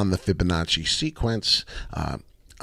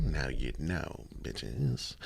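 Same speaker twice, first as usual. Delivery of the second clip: quiet sign-off; 8 semitones lower, 15 dB quieter, much slower than usual. Acted. Signature sign-off catchphrase.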